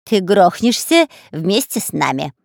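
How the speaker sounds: snapping back. Acted. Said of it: "огрызнулся шпион Дырка".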